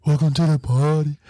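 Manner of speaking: gruff Brooklyn drill growl; a rapper's voice. Retold or imitated. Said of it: "that rapper's voice is different".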